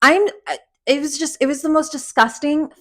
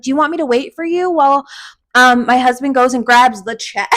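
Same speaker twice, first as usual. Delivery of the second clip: fake casual offer; 3 semitones higher, 3 dB louder than usual. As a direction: offer the getaway sweetly and quickly. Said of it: "She's like".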